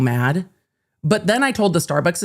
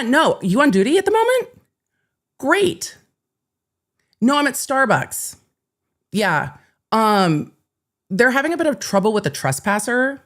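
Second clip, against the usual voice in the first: fake cheery call; 3 semitones higher than usual. Pretending to ring a police friend at Starbucks, breezy and higher. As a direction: pretend phone call, bright and higher-pitched.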